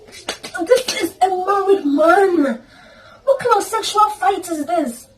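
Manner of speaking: crying disbelief. Retold or imitated. By the elevator, she sobs at what the married man did. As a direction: choke it out half laughing, half crying. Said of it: "I felt like".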